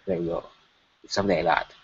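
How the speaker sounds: Chief Dorfdorf. Acted. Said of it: "in his voice".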